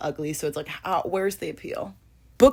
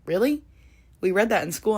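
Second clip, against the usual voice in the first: surprised; 4 semitones higher than usual. Retold or imitated. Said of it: "And they're like".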